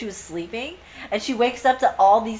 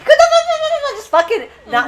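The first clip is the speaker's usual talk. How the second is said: high, loud rant at a sister; high-pitched mock griping; mock bitching; 7 dB louder, faster than usual. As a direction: rattle off an exasperated telling-off. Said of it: "starts bitching at her sister".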